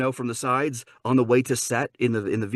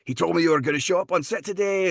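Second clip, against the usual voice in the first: higher, chatty fake Scottish; put-on Scottish accent; 5 semitones higher than usual. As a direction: make small talk as a pretend Scot. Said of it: "do your Scottish accent".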